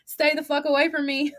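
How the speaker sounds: words breaking into laughter; laughing send-off. Real, not acted. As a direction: say it while starting to laugh. Laughs through imagined send-off.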